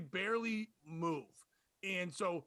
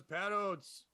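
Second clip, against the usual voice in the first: no energy. Retold or imitated. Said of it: "tries not to have any energy in it".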